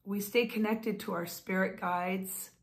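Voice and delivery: ordinary talk, nothing marked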